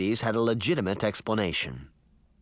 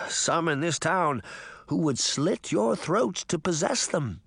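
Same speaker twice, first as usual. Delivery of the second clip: higher, ominous servant voice; Mirror, grave warning; 6 semitones higher than usual. A narrator's reading. Mirror warning the girls about the deadly slippers, grave. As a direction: warn them as if telling a dark secret.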